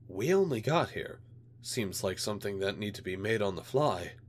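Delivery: a hint of a menacing alien; menacing alien official. Alien liaison answers.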